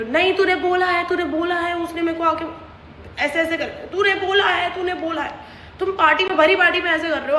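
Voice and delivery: jab the accusation repeatedly; mock accusing shout. Friend accusing her at the party, mock shouted accusation.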